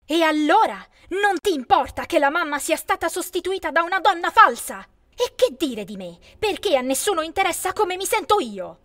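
loud, high furious yell; shouting in hurt rage. A narrator's reading. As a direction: scream the grievance at her sister. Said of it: "così urlai".

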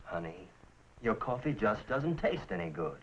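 low, downcast complaint; glum. Acted. Husband complaining to his wife about her coffee, glum and low. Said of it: "Why so glum?".

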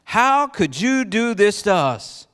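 yelling. Acted. Abimelech yelling at Isaac again, outraged. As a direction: demand an answer, wounded king. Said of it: "Abimelech exclaimed, yelling again".

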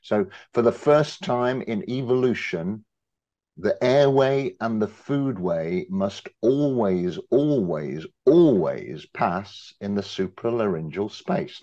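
a hint of a New York lecturer, slow and emphatic; lightly quoting a New York expert, leaning on always; mild Woody Allen style, slow, stressing each always. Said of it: "You just imagine Woody Allen saying this".

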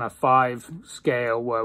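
talking around pipe stem; speaking between puffs; pipe in mouth. Real, not acted. Seen 2: Pipe is repeatedly put to his lips mid-speech, else held near the face.

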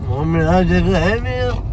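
slow protest climbing high at the end; mock-indignant, rising whine of ownership; mock possessive protest. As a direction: claim it playfully, pitch rising sharply. Mock squabble over whose place it is.

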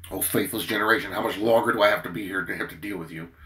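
mildly exasperated, imitating the Lord; a little impatient. Jesus tiring of the faithless generation, mildly impatient. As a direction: voice a touch of impatience. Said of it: "was a little impatient with him".

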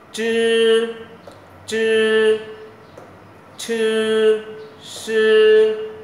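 "Chư" and "Sư" each long, high and loud, tongue curled; tongue-curled drill. Shown as a demonstration. Teacher drills three letters, "Chư" and "Sư" tongue-curled. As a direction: chant "Chư", "Sư" slowly apart with curled tongue. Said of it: "ba chữ này là âm uốn lưỡi".

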